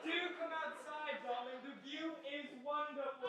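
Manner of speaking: soft stage line. Acted. Actor delivering balcony line, soft theatrical coaxing. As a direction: murmur it sweetly.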